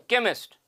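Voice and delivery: केमिस्ट starting with a k, not ch; hard k sound. Shown as a demonstration. Teacher shows students the first sound of केमिस्ट, hard k. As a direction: begin केमिस्ट on a clear k. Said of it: "क का sound है".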